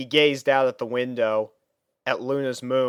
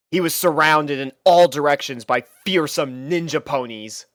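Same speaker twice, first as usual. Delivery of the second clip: plain reading voice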